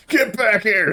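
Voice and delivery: loud yell after a fleeing mouse; shouting after mouse. Acted. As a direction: bark it at the running mouse. GM voices construct chasing mouse.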